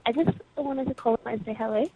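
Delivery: normal talking voice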